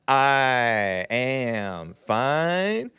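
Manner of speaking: slow high stretched-out call; drawn-out yell. Real, not acted. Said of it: "I can't scream as well".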